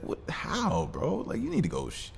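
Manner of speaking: high-pitched mock outrage at a hairy stranger; incredulous. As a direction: squeak it out like you can't believe your eyes. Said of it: "I was like".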